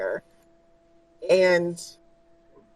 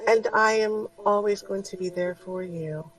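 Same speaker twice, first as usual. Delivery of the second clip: soft, much quieter motherly voice; gentle spirit guide; 4 dB quieter than usual. Acted. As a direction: reassure her tenderly. Guide speaks.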